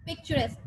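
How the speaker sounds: "Picturesque" said alone with a falling end; "Picturesque" as a teacher's pronunciation example; model pronunciation. Shown as a demonstration. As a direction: model the word "Picturesque" for the class. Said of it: "How do we pronounce it?".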